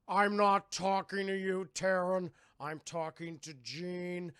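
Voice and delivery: slow, deliberate, lightly voiced brute; a touch of sulky rebuke; mock indignant Fred. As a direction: put Taryn down slowly and pointedly. Voicing Fred rebuffing Taryn.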